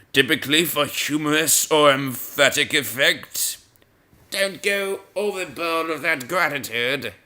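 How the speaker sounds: measured reading from a dictionary; formal entry-reading voice. Real, not acted. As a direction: read the definition out deliberately. Reads dictionary entry aloud.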